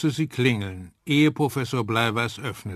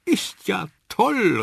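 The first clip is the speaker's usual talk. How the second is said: langsam, hoch und lauter vor Begeisterung; begeistert rufend; 8 semitones higher, 4 dB louder, slower than usual. A narrator's reading. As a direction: ganz begeistert ausrufen. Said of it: "rief Susanne ganz begeistert". (Susanne ruft begeistert über die Erfindung)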